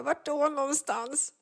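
high, slow, timid asking; meek question. Retold or imitated. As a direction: ask like the child in the room. Mother asking son meekly. (försiktig fråga, hög och långsam)

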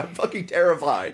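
high-pitched, hammed-up fright; mock terrified. Co-host acts out scared Sam.

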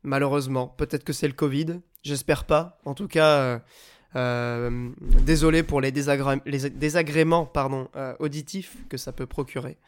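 blocked nose, talking through it; speaking with a head cold; stuffy nose. Real, not acted. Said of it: "j'ai tendance un peu à parler du nez".

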